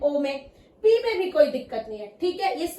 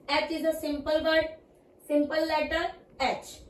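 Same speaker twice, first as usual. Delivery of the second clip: slow teaching; much slower than usual. Shown as a demonstration. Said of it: "teacher slow demo".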